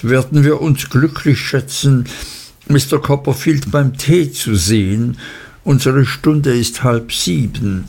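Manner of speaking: a hint of a formal, precise old lady; stiffly polite lady setting the rules; prim old lady. Prim elderly lady states terms.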